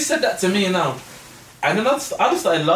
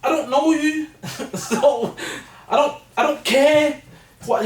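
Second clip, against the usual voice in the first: worked up; 8 semitones higher than usual. Real, not acted. Indignant, pitched up, laughing.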